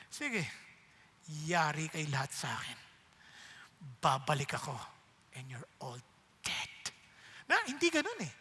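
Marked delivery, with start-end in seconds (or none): 0.1-6.7 low, quiet, menacing threat; mock menacing threat. Jesus imagined threatening his enemies, low and menacing. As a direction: growl it down low like a villain. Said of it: "pwede sabihin".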